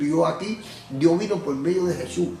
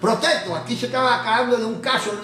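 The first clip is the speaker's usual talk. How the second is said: objecting lawyer; 5 semitones higher than usual. Acted. Acted defence lawyer objects in court.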